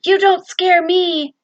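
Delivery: put-on girl standing up to the shadow, slow brave shout; defiant. A narrator's reading. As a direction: plant your feet and call it out bravely. Girl defies the monster.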